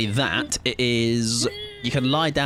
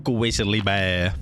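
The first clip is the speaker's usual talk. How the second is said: low, slow bear voice; deep growly bear voice; 6 semitones lower, much slower than usual. Pretend. Streamer opening his video as a bear, low and slow. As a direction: drag it out low like a grizzly.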